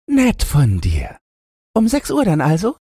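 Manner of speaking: high squeaky piglet voice; high-pitched storybook pig; little pig. A narrator's reading. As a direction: agree in a tiny pig squeak, ending on a rising question. Little pig answers the wolf.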